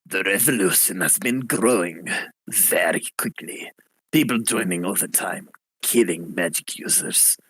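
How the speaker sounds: put-on low, grim French accent; lightly accented rebel listing the killings; angry French accent. Rebel leader briefing the party, in a low French accent. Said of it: "he goes".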